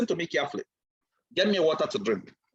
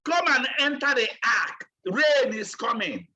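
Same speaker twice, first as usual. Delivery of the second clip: mildly raised retold shout; Noah calling his people; 2 semitones higher than usual. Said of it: "started shouting on his people".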